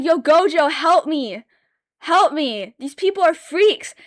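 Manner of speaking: loud, pleading call to Gojo; retold plea for help. Calling Gojo for help against the freaks, loud pleading. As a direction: beg him for help, half yelling. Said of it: "and I'm like".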